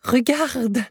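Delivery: high, eager exclamation; excited command. A narrator's reading. Professor shows Axel the carved runes, high excited cry. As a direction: point at the stone in triumph. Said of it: "me dit le professeur".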